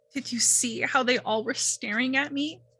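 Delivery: talking through tears, tearful crying voice. Playing a character upset after a fight: crying while talking. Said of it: "crying and covering her face".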